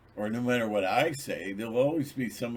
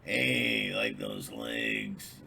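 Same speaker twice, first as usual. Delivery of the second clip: pickup line; 10 semitones lower, much slower than usual. Retold or imitated. Man's pickup line in story.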